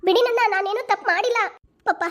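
woman crying out as police drag her; desperate protest. Acted. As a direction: struggle free while protesting. Dragged away, protesting.

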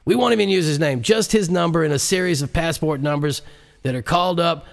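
a muffled recording of a conspirator; vice president on recording. Acted. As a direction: sound like a scheming voice on a bugged tape. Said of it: "the vice president's voice came over the recording".

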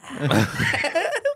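imitated Undertaker noise. Telling friends how he stood up and went, imitated Undertaker noise. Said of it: "like The Undertaker".

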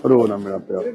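low, soft soothing voice; tender consoling. Real, not acted. Helper comforting crying old father, tender and hushed. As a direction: gently hush a weeping elder.

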